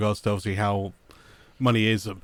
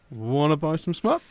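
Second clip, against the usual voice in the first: sleazy salesman; 6 semitones higher, slower than usual. Retold or imitated. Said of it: "the sleazy salesman side of it".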